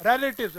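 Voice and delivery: रिलेटिव्स with an open रै at the start; right pronunciation. Shown as a demonstration. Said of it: "रै, रै".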